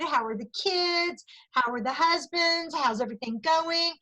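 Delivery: slow, drawn-out mock small talk; chit-chat small talk. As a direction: stretch out each polite little question. Acted friendly chit-chat at boutique.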